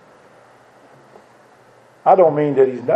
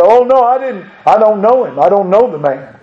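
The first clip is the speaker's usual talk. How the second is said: heated denial; 4 semitones higher than usual. Retold or imitated. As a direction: protest it, voice up. Peter's third denial, heated.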